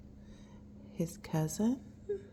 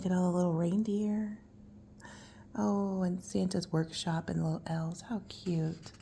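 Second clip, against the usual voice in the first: soft unvoiced whisper; 6 dB quieter than usual. Real, not acted. Parent whispering to a child over the picture book. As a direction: breathe it, barely a sound.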